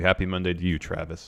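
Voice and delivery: slight Southern accent. Real, not acted. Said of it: "You had a little Southern accent when you said Travis".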